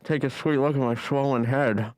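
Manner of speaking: talking through gauze; gauze in mouth. Acted. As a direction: speak round gauze in the mouth. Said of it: "Just the way you're talking".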